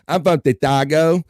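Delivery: high, loud, laughing crackhead Bob bragging. Retold or imitated. Host keeps up crackhead Bob for his co-host, high and laughing. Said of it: "crackhead Bob impersonations".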